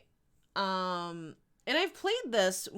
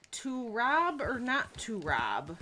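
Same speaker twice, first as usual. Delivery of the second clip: mock Hamlet; 3 semitones higher, slower than usual. Mock Hamlet musing over robbery.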